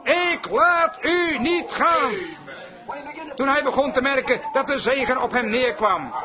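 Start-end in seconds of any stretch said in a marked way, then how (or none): 0.0-2.1 desperate cry. Retold or imitated. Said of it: "wanhopig riep hij".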